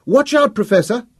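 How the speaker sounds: very high, loud warning cry; woman's voice ringing out. A narrator's reading. Woman warning the professor, ringing out. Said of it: "A woman's voice rang out".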